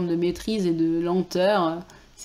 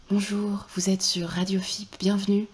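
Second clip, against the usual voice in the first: radio host voice. Retold or imitated. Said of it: "c'est un peu genre".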